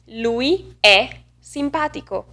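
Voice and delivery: Italian, "è" held wide open. Shown as a demonstration. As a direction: make "è" stand out, open as in bet. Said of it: "The open version of this vowel".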